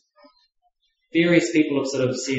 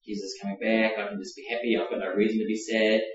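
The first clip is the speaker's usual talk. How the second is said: mock cheerful believer. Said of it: "We just saying, you know".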